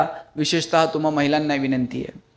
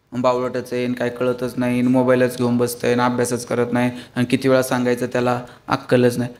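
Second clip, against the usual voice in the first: complaining parent; 6 semitones lower than usual. Retold or imitated. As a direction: run the kid down in front of guests, a mild grumble. Parent complaining about son to guests.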